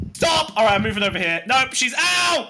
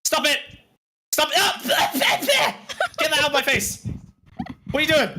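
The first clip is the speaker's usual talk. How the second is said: alarmed yelling; 4 semitones higher than usual. Acted. Acted attack, yelling.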